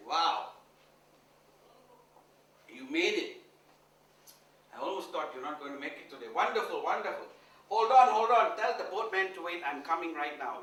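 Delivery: loud, eager welcome; excited greeting. Retold or imitated. Guru greeting the milkmaid, loud and eager. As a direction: urge her to hold the boat.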